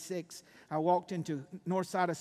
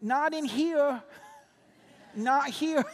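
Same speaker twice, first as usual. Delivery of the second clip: put-on child hiding; 7 semitones higher, slower than usual.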